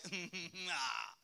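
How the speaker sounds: stagey cackle; teasing hammed-up evil chuckle; mock villain laugh. Mimicking God as a riddler, mock cackle.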